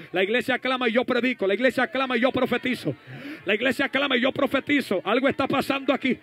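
chant-like, insistent exhortation; rally the church with driving repetition; fervent preaching. Real, not acted. Preacher rallying the church to cry out, fervent preaching.

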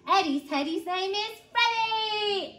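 put-on animated read-aloud for small children; story narration. A narrator's reading. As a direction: tell it clearly and expressively to little ones.

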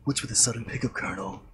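lightly voiced Snake; a hint of the stealth soldier. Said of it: "I gotta do my, uh, snake voice".

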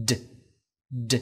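"D" with the vocal cords vibrating; voiced d sound. Shown as a demonstration. Teacher shows the final sound of crowded, voiced d. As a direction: say "D" as a voiced stop, not a t. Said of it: "cần rung dây thanh quản".

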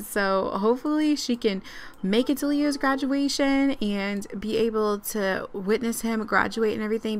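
ordinary talk, nothing marked

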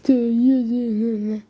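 drawn-out, slow mocking noises; stretched-out teasing; mocking taunt. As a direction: imitate kids making fun of someone. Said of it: "some people make fun of him".

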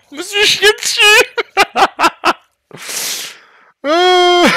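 high, loud fast laughing cry; scared horror game streamer. Real, not acted. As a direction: laugh it off in a shriek. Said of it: "j'ai eu peur, là".

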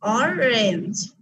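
"অরেঞ্জ" slowly broken as or-range; split in two. Shown as a demonstration. Teacher shows the word divided in two, "অরেঞ্জ" slowly by syllable. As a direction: stretch both syllables of "অরেঞ্জ". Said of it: "দুটো ভাগ করেছি আমি".

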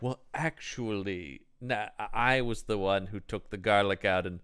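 low, soft, halting confession; sheepish maid. Retold or imitated. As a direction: own up meekly as the imitated maid. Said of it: "this maid is just like".

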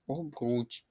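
Обруч softly repeated with stress on РУЧ; second-syllable stress. Shown as a demonstration. Teacher confirming the right form, Обруч stressed on the second syllable. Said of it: "Наголос на другий склад".

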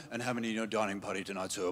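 soft, quick posh waiter murmur; mock fine dining hush. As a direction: hush it like a fancy waiter asking the table size. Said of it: "They're not whispering to you".

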